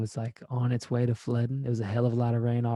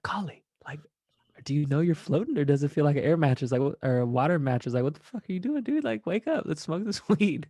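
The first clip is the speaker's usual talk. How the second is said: higher, bright, disbelieving wake-up call; incredulous teasing; 4 semitones higher than usual. Retold or imitated. Waking Kali on a floating air mattress, incredulous. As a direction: rouse a friend who's floating, half laughing.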